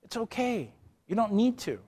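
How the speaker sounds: soft, soothing retelling; quiet, kindly reassurance; reassuring. Retold or imitated. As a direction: gently let him off the hook. Retold calming of his defender.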